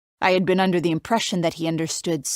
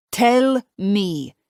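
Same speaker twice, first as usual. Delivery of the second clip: put-on light Italian accent; 4 semitones higher, 5 dB louder than usual. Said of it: "His Italian accent isn't even that thick".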